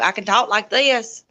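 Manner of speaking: exaggerated Southern accent on demand; hammed-up Southern accent. Shown as a demonstration. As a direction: stretch "this" in a thick Southern accent. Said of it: "If you really want me to".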